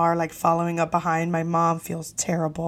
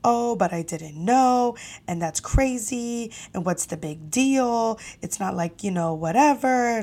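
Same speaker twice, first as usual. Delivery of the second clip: mother-in-law defending herself. Retold or imitated. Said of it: "saying things like".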